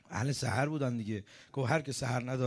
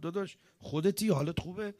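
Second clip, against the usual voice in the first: incredulous questioning, slightly higher; retold disbelief, checking on a brother; astonished brother; 4 semitones higher than usual. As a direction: imitate a puzzled sibling, pitched up.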